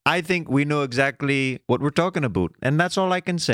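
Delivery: lightly put-on Canadian accent; a touch of imitated Canadian; mock Canadian accent. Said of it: "did the Canadian voices".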